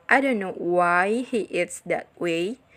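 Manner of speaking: slow, with "why" lengthened; stress on why. Shown as a demonstration. Teacher modelling an emphasized question word, stressed "why". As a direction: ease through it, leaning on "why". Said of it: "hear how the focus words are emphasized".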